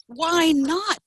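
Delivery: high, lively comeback; crying out. A narrator's reading. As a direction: toss it back high. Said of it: "they cried".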